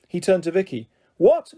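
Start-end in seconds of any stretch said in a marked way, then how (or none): 1.2-1.5 sharp, high, loud disbelieving yell; shocked shout. Acted. Vicky shouting, stunned that her dad won't come. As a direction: bark it out, stunned. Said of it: "shouted Vicky".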